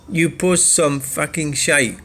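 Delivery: slow, sneering read of the comment; lightly mocking troll voice; mocking commenter voice.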